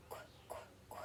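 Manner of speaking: soft clicking qu, qu, qu; whispered qu. Shown as a demonstration. Teacher leading kids through quail sound, whispered qu. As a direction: whisper "Qu" three times. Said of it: "do the sound and signal".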